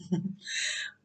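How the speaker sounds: short, quiet, breath-only laugh; soft chuckle. Real, not acted. Vlogger tells viewers why she loves yoga nidra, soft chuckle. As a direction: let out a small real chuckle. Chuckle after announcing her topic.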